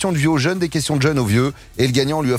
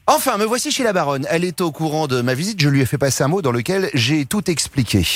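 lightly acted vaudeville monologue; theatrical tirade. Shown as a demonstration. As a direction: recite it like a stage actor. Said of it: "je vous fais une petite tirade".

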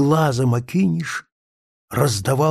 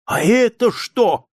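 high, louder near-crying question; near tears; 9 semitones higher, 4 dB louder than usual. A narrator's reading. Narrator asks the witch, close to tears. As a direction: ask on the verge of tears. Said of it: "чуть не плача спросил я".

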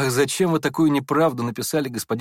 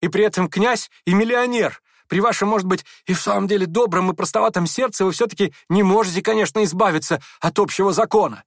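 higher, louder grand proclamation; higher pitched pompous declaring; proclaiming; 6 semitones higher, 4 dB louder than usual. A narrator's reading. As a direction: announce it like a verdict. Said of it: "провозгласил Ипполит".

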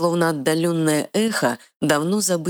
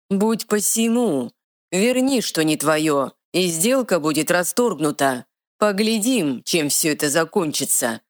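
smirking dark lord; 4 semitones higher than usual. Acted. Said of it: "ухмыльнулся Тёмный".

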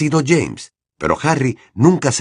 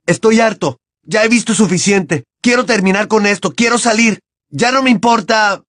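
higher, louder rant; furious; 11 semitones higher, 4 dB louder than usual. A narrator's reading. Harry raging at the headmaster, louder and higher. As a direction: spit out every phrase in rage.

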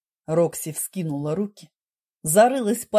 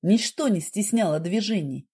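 ordinary delivery, nothing marked

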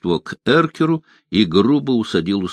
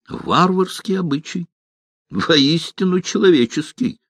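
wincing disdain; 8 semitones higher than usual. A narrator's reading. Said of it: "поморщился Дайнти".

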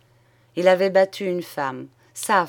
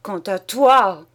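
louder, slow shout dragged out; 7 dB louder, slower than usual. Acted. Husband turning on his wife, slow loud shout. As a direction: hurl it at her, slowly. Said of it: "il cria".

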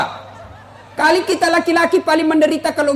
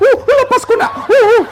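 high, loud yelps of pain; mock pain; 10 semitones higher, 4 dB louder than usual. Nursing mother begging baby to let go, mock pained yelping. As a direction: yelp and plead through pretend pain.

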